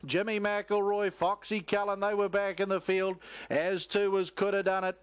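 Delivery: rapid live race commentary, rising with the finish; race call. Real, not acted. Race caller to the crowd, live play-by-play call.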